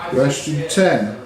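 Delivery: very slow, drawn-out question number; quiz question announcement. Acted. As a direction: stretch it out like a quizmaster.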